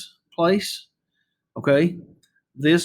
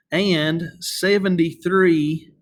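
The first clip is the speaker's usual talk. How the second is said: and seventy-three said slowly and clearly; slow and deliberate; much slower than usual. Shown as a demonstration. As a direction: spell it out slowly for the class. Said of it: "the decimal actually is the word and".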